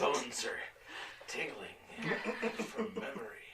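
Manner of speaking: laughter-broken joke; real laughing. Real, not acted. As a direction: struggle to speak through laughter. Joking, laughing through own line.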